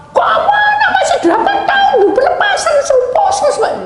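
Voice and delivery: very high, laughing, disbelieving squeal; incredulous laughing protest. Retold or imitated. Mother squeals in laughing disbelief at the preacher's deliverance suggestion.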